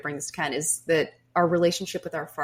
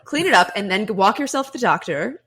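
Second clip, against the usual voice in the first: stern mom; 2 semitones higher, 6 dB louder than usual. Retold or imitated. Voicing the pragmatic mother.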